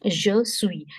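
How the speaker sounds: suis as "swee", final s silent; French pronunciation of suis. Shown as a demonstration. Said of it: "the sound of U I is V".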